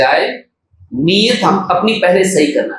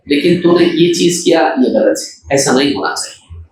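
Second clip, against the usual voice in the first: gentle correction; 3 semitones lower than usual. Shown as a demonstration. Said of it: "خوبیوں کو بھی آپ کو یاد رکھنا چاہیے".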